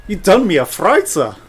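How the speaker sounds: loud playful pun; hammed-up accusing pun; mock accusation. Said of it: "Sorry, I can't resist".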